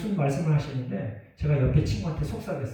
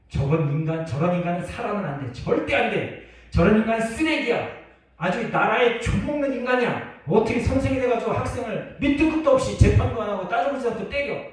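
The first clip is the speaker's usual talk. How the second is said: louder, higher rising outrage; indignant rant; 6 semitones higher, 4 dB louder than usual. Retold or imitated. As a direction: vent your fury at the teacher. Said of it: "무슨 생각인 줄 아세요".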